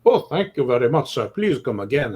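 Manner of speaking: lightly put-on bad Italian accent; a self-mocking hint of an Italian waiter. Restaurant owner thanking a guest, in a bad Italian accent. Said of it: "that's my Italian accent".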